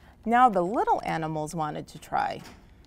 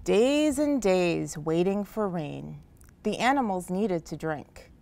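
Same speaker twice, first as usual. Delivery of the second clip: storytelling narration. A narrator's reading. Librarian reads the opening of the story to children. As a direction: draw the children into the drought.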